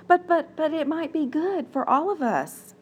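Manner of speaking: put-on a little girl stammering her plea. Little Nahare pleading with her mother, small and high. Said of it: "said the little voice".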